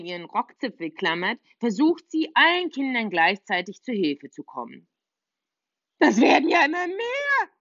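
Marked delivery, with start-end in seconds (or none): 6.0-7.5 higher, louder mild scold. Acted. Little witch scolding the ants, a touch cross. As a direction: grumble at the growing ant swarm. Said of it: "schimpft sie".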